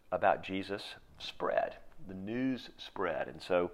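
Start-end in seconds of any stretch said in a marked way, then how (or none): 2.1-3.3 slow, "news" leaned on hard; stress on news. Shown as a demonstration. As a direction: land "news" with weight, slowly. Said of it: "I emphasize the word news".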